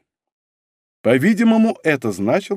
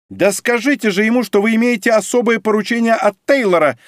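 high, loud demand; shouting at him; 9 semitones higher, 3 dB louder than usual. A narrator's reading. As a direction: yell the order at him. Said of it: "закричала она на меня". (высокий громкий окрик)

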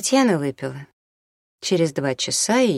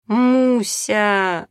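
higher, louder moaned call; moaning; 6 semitones higher, 4 dB louder than usual.

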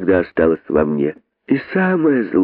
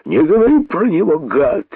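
higher, faster enraged snake yell; furious outburst; 9 semitones higher than usual. Acted. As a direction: snap at him in fury. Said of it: "воскликнул пустынник в сильнейшей ярости".

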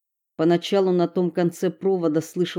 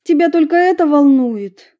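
annoyed; 8 semitones higher, 8 dB louder than usual. Acted. Eva snaps at Stella.

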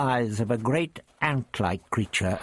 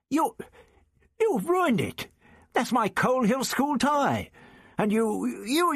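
put-on raised, spluttering young teacher; the teacher Ian, outraged over his tie; indignant Ian; 13 semitones higher than usual. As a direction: Ian protests about his ruined tie. Ian speaking, aggrieved.

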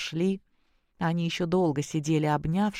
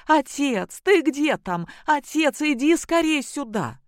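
high, loud call to another room; wife calling her husband from the next room, high and loud; calling loudly; 10 semitones higher, 4 dB louder than usual. Acted. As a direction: shout for her husband to come. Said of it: "прокричала громко".

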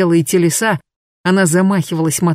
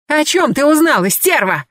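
higher, sharper furious shout; furious yell; 9 semitones higher than usual. Acted. Vasilisa yelling at her former friend, higher and furious. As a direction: hurl the question at her. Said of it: "заорала Василиса".

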